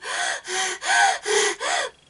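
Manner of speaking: loud, high gasp sucked in; a sudden gasp of crying breath; panicked crying gasp. Shown as a demonstration. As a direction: demonstrate the sharp sob-gasp to avoid. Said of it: "to not go".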